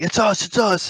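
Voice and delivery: high, urgent mock panic; panicked plea. Scared pranksters identify themselves to the gunman, acted panicked plea.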